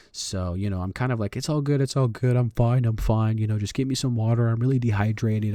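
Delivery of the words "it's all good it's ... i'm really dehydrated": raised voice, hurriedly brushing off concern; higher, mildly urgent retold reassurance; insistent reassurance. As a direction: act out insisting you are fine. Retold reassuring of panicked girlfriend.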